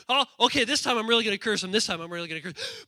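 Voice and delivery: quick, muttered self-pep talk; lightly voiced determined prophet. Balaam readying the curse, a quick lightly acted pep talk. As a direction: psych yourself up fast.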